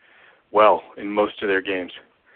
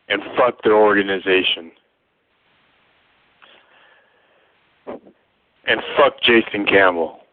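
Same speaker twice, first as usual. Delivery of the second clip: bitter angry rant. Real, not acted. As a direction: vent the fan's disgust, one curse at a time. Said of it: "you can hear it in his voice".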